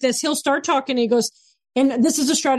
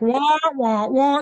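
mock droning wah-wah noise; lightly hammed-up cartoon grown-up babble; Charlie Brown teacher; much slower than usual. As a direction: imitate a teacher's unintelligible drone. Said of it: "turn into the Charlie Brown teacher".

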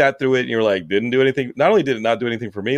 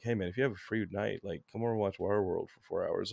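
mock invite; 3 semitones lower, 14 dB quieter than usual. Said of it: "you're like".

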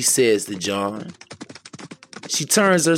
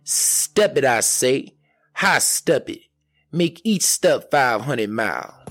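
devil commanding; 3 semitones higher than usual. Acted. Devil commanding his boots.

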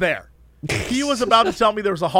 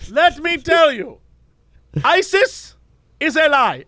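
lightly voiced ranting cab driver, higher; 6 semitones higher, slower than usual. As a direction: imitate the driver's conspiracy rant. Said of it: "the guy's like".

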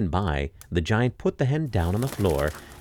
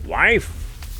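giant calling out; 9 semitones higher than usual. Acted. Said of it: "cried the giant".

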